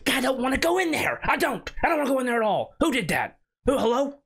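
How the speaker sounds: high, frightened pleading; scared high whine. Real, not acted. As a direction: plead like you're terrified. Scared entering dark room.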